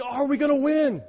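worked-up fan. Retold or imitated. Anxious fan mid game.

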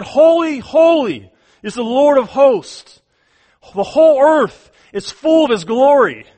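loud angelic praise; seraph calling out. Acted. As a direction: call it across the temple like an angel. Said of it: "And one called to the other".

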